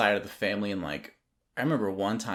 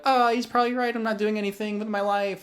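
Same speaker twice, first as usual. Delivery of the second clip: much higher, mock-defeated self quote; mock resigned agreement; 12 semitones higher than usual. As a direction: play your younger self giving in with a sigh. Retelling his own reply to dad.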